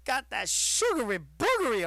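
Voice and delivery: high goofy critic reacting to sugar; imitating the critic. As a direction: squeal over something too sweet. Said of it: "he's like".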